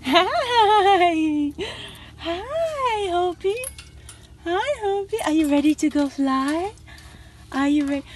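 high sing-song pet voice; talking to a pet. Real, not acted. Greeting her bird Hopi.

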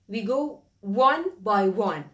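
one by one, drawn out slowly. Shown as a demonstration. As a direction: spell it out slowly, piece by piece.

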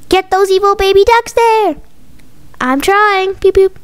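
put-on slightly high, urgent kid voices; kids gaming. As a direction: lightly voice excited young gamers. Kids absorbed in video game.

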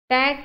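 টেক as one isolated syllable. Shown as a demonstration. Teacher starting to break up technology, টেক separated off. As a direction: say টেক alone, then stop. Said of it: "গতিকে চাৰিটা syllable হ'ব".

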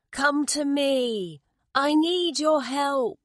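high, slow, carrying appeal; calling out. A narrator's reading. Mother bird asking frogs for help, high slow call. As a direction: stretch each word to summon help. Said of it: "she called out".

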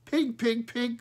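high, loud crow squawk of pig; a crow cawing pig pig pig, high and loud; crow cry. Acted. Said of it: "cried Smoky".

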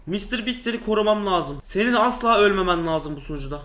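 normal talking voice

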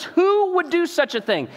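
high indignant repeat; outraged king. Retold or imitated. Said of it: "He says".

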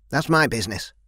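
a touch of contempt, lightly spat. Acted. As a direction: brush her off with a mild spit of scorn. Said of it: "the woman spat".

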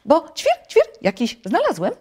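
very high, chirpy little bird voice; chirping sparrow. A narrator's reading. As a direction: chirp loudly between polite, high words. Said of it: "zapytał wróbel".

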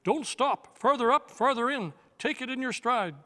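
high, loud rallying cry. Acted. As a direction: urge everyone on over the rush of water. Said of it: "Jewel also cried out".

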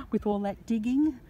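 breathy, winded finish; out of breath. Real, not acted. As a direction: still puffing a little. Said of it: "and I'm out of breath".

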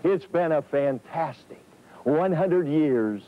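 a light, slow Southern drawl, barely shifted; Fielding Yost's Southern drawl. Retold or imitated. Old reporter imagining the late coach's words, light Southern drawl. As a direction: ease into a gentle Southern drawl, slowly. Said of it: "in his own inimitable Southern drawl".

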